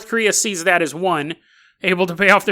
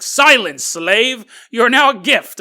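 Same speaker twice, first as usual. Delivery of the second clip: mock commanding; 3 semitones higher, 4 dB louder, slower than usual. Commanding the gifted friend.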